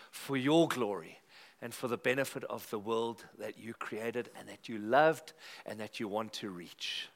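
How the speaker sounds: earnest pastor praying aloud; steady, sincere church prayer voice; congregational prayer. Acted. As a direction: lead the room in heartfelt prayer.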